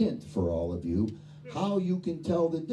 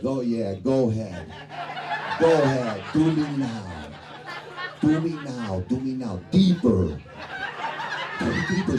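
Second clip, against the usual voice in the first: mock moaning patient; 3 semitones lower than usual. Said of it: "I'm like".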